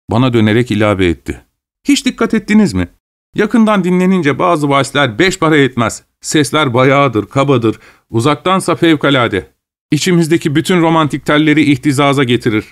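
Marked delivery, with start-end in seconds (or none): 1.9-12.6 lightly voiced, higher-pitched music lover; enthusing Gagin. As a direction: share your opinion with lifted pitch. Gagin enthuses about distant music. (hafifçe tizleşen, hevesli sohbet sesi)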